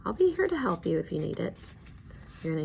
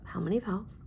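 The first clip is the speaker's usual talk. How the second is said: whisper; 4 semitones higher than usual. Real, not acted. Teacher whispers during student work.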